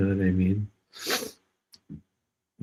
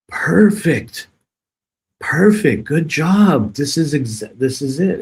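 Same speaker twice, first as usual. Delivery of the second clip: higher and louder sarcastic cheer; mock delight; 6 semitones higher, 5 dB louder than usual. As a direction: ironic praise for the trolls. Mock praise for cyberbullying.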